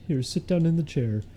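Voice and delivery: lightly voiced pushy therapist, prying questions; a hint of a probing shrink; mock therapist. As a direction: play a nosy therapist grilling a patient. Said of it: "it's me, the therapist".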